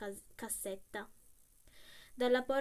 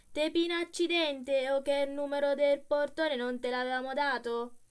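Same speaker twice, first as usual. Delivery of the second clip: loud, higher Roman rebuke; angry scolding; 4 semitones higher, 8 dB louder than usual. Acted. Gravediggers scolding the coachman, loud angry rebuke. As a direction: tell him off hotly.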